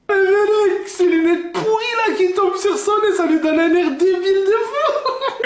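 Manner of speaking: slow, laughing taunt; teasing mockery. Son mocking his frozen dad's glasses, laughing. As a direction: savour mocking him while he can't answer.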